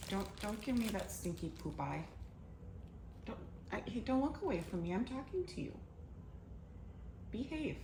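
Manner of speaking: hushed, scolding the cat softly. Real, not acted.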